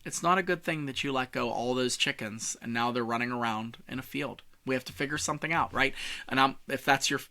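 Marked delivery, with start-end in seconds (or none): 0.0-5.7 soft, sober tone; serious. Shown as a demonstration. Meeting leader addressing a problem, serious and softer. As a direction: bring it down and say it gravely. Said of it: "But when it gets serious".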